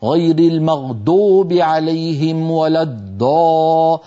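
put-on slow recitation with the ض as a heavy d, non-Arab accent; foreign reciter. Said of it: "فيقول مثلًا". (تلاوة أعجمية بطيئة بدال مفخمة)

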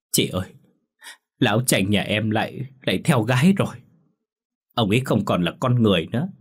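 lightly tearful, rising pleas; a hint of sobbing complaint; mild crying. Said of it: "Lan vừa khóc vừa nói". (Lan vừa khóc vừa kể tội chồng, giọng nghẹn nhẹ)

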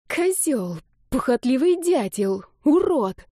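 put-on girl berates the guy she woke beside, furious; furious insults. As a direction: hurl each insult with rising fury. Girl insulting the young man.

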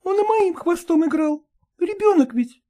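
high, quick, coquettish dog chatter; chattering lady dog. Acted. Ragulya excusing herself to Polkan, high quick chatter. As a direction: prattle on, pleased with yourself.

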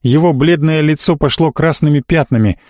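ordinary delivery

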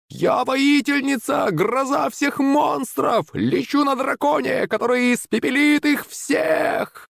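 very high, slow, held-back mock shout; excited yelling. A narrator's reading. Girl boasting from a flying dragon, gleeful high yell. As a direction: stretch every word like a far-off triumphant yell, softly. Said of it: "закричала Юленька".

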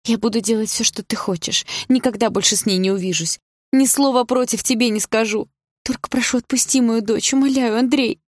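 high, desperate begging; pleading. A narrator's reading. Mother promises anything to free daughter, pleading. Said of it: "взмолилась мама".

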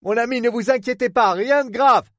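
high voiced detective calling out reassurance; reassuring injured detective. Pierce reassuring Lorraine from the deck. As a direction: soothe her from afar, loudly.

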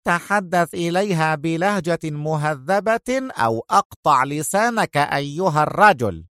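lightly voiced tough woman warning; rough threat. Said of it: "في خشونة". (بخشونة)

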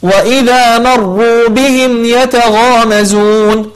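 مروا with a thin م and a thick ر; correct light m. Shown as a demonstration. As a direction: keep the م light in مروا and darken the ر. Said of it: "فنقول". (ترقيق الميم وتفخيم الراء في مروا)

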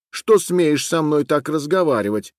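put-on furious girl chasing off a boy; angry shout. A narrator's reading. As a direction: drive the boy away. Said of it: "закричала она".

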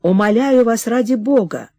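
a touch of heated pleading; pleading lover. Acted. Alexander pleading with Nadenka. (мольба с жаром)

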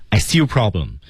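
calm falling confirmation; measured, level-headed delivery; calm, rational. Shown as a demonstration. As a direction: state it coolly, falling at the end. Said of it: "很冷静、很理性地表达这句话".

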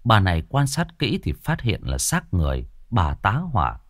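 plain reading voice

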